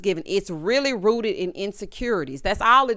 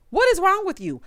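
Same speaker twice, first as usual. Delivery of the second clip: exasperated yell; 9 semitones higher, 3 dB louder than usual. Real, not acted. Scolding a cast member on screen.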